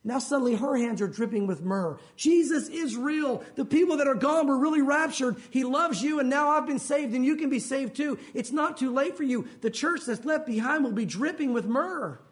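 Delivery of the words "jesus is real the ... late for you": higher-pitched, urgent testimony; fervent proclamation. Acted. Left-behind bride tells others they can be saved, fervent proclamation. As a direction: proclaim it to everyone, voice lifted. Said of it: "now suddenly she's proclaiming his death".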